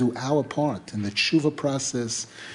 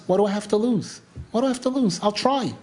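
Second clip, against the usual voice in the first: lightly acted, higher-pitched resolve; deciding to try; 5 semitones higher, faster than usual. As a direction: talk yourself into it, pitch lifted. Hero talks himself into trying.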